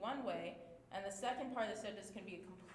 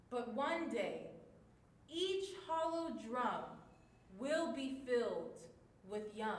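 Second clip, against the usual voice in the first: hopeful. Shown as a demonstration. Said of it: "using all of our different emotions".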